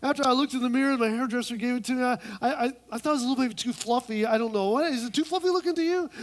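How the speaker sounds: hammed-up insecure friend; mock-girly fussing; fretting woman. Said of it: "Woman number two says".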